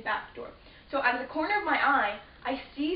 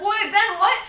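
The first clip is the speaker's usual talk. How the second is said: 1 baffled cry; 9 semitones higher, 11 dB louder than usual. Retold or imitated. Siblings confused by brother.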